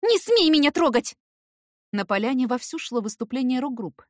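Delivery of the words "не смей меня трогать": much higher, loud command; loud, high warning with stress on не; furious shout. A narrator's reading. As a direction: stop him with your voice. Heroine fighting off Eric.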